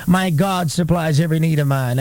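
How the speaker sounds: firm declaration of "My God supplies every need of mine"; "My God supplies every need of mine" said emphatically; declared with emphasis. Shown as a demonstration. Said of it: "when we declare with emphasis".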